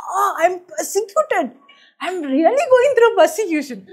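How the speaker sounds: hammed-up martyr's lament; mock self-pity. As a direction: play the poor persecuted victim. Mocks her former self-pity.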